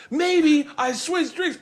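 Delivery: high, slow, coy singsong; imitating a smug prankster; teasing reveal. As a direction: draw out the secret in a mock-innocent high voice. Retold prankster teases his reveal.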